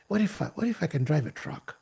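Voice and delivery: curious wondering. Acted. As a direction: wonder aloud as ideas occur to you. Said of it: "it sounds like a curiosity".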